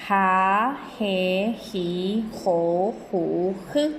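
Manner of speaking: teacher modeling each syllable separately; spelling-sound drill for children. Shown as a demonstration. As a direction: sound out "ja, je, ji, jo, ju" with an aspirated h. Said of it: "Y decimos, y la veamos".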